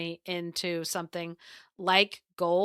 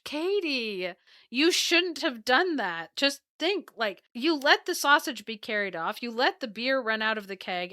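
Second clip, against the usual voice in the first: higher, exasperated scolding; exasperated husband; 4 semitones higher than usual. Acted. Husband scolds wife in story.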